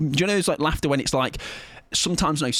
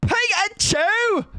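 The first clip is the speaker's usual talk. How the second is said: very high, drawn-out squeaky Pikachu call; Pikachu cry; much slower than usual. Pretend. Streamer shows chat she can do the Pikachu sound too, squeaky. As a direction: squeal it like the little yellow Pokemon. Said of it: "I can do it as well".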